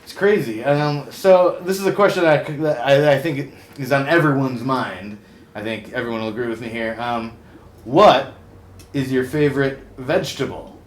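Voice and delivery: loud, showy host delivery; talk show host. Acted. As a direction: welcome the guest like a TV host. Hosts a TV talk segment.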